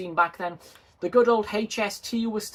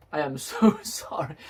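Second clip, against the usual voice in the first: laughing mock apology; 3 semitones lower than usual.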